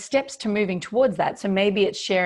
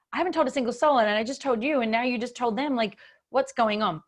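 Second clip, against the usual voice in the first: indignant protest; 4 semitones higher than usual. Retold or imitated. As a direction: replay your shocked protest at him. Retold outrage at partner's betrayal.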